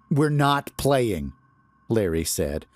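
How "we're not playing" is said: authoritative. Acted. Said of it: "with the last of his authoritative tone".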